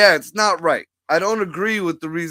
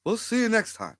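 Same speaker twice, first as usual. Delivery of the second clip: Obama impression; 3 semitones higher, 6 dB quieter than usual. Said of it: "my Obama voice".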